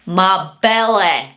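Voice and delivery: put-on drawn-out Scottish accent, punched out; mock Scottish growl of greedy delight; hammed-up slow Scottish accent; Austin Powers impression. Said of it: "like that Austin Powers".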